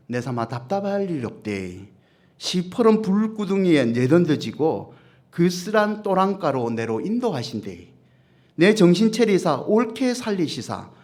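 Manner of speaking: Psalm 23 read in a light Gyeongsang dialect. Shown as a demonstration. Pastor showing his congregation how Gyeongsang folk recite, in a Gyeongsang dialect. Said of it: "저 같은 경상도 사람은 이렇게 시편 이십삼 편을 읽어요".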